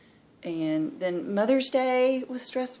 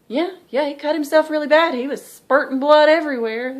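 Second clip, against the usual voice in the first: mom's account; 8 semitones higher, 10 dB louder than usual. Retold or imitated. Mom retelling calmly.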